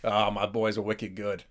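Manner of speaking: slow mock Boston accent; drawn-out Boston catchphrase. Shown as a demonstration. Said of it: "do this Boston accent in Harry Potter".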